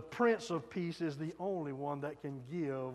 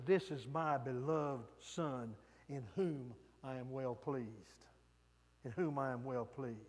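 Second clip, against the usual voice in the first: voice of God; 3 semitones lower than usual. Acted. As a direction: speak as God, calm and grave. God's voice at baptism.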